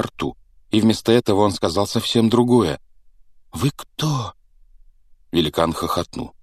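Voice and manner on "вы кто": put-on timid boy. Startled boy asks.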